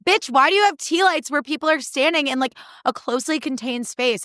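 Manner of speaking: high, indignant rant; outraged. Real, not acted. Speaker ranting at the host about tea lights, outraged. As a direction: call out the absurdity.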